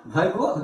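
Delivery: Bhargo with breath after the B; aspirated H. Shown as a demonstration. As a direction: sound the H in Bhargo. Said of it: "again the H sound".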